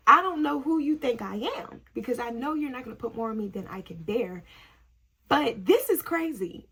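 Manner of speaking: hammed-up exasperated prayer; acted protest to God. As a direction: argue with heaven, loud at the start.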